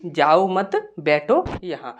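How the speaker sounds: जाओ मत together, then बैठो यहाँ; slowly group मत with जाओ, break before बैठो; pause after मत. Shown as a demonstration. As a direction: break after मत, meaning don't go, sit here. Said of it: "comma यहाँ पर लगा हुआ है मत के बाद".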